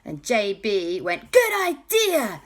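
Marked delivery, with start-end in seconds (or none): 1.3-2.4 high, loud cheerful call; eager reply. Acted. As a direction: seize the idea happily. JB answers the boys.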